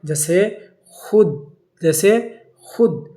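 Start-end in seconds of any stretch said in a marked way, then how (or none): 0.8-1.5 خود as khud, short u and no w; silent wao. Shown as a demonstration. Teacher giving an example of wao madoola, silent wao. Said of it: "پڑھتے وقت واو ادا نہیں کیا جاتا". 2.6-3.1 خود as a short, crisp khud without any w; silent wao. Shown as a demonstration. Teacher repeating an example for students, silent wao. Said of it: "پڑھتے وقت واو ادا نہیں کیا جاتا".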